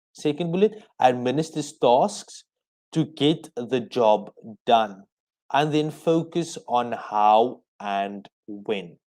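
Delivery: measured, spaced-out phrases for note-taking; slow dictation. Real, not acted. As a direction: dictate slowly so they can write it down. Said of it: "I'll say it slowly so that you can write it down".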